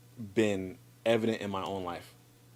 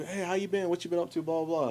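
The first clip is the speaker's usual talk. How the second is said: higher-pitched mock catch-up chat; retold chitchat in a raised voice; breezy small talk; 8 semitones higher than usual. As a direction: imitate a friend's casual greeting. Retelling friends' small talk.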